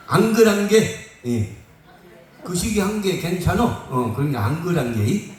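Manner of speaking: playful Jeolla dialect demo. Acted. Preacher showing how lions in Jeolla would talk, Jeolla dialect. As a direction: put on a drawn-out Jeolla accent. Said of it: "전라도 버전이 앙글".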